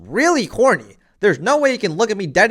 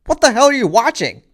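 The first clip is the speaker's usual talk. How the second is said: incredulous friend; 7 semitones higher than usual. Retold or imitated. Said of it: "they're like".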